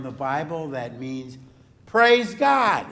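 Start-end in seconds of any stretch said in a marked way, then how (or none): 1.9-2.9 high, loud exclamation; cheering praise. Shown as a demonstration. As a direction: proclaim it like a cheer. Gives meaning as a cheer.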